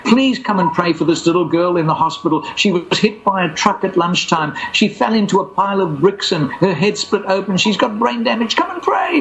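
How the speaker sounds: rising, urgent begging; pleading. Retold or imitated. Woman begging him to pray.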